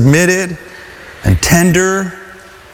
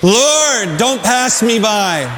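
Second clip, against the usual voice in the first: leading a plea; 4 semitones higher, much slower than usual. Shown as a demonstration. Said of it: "Let's say that together".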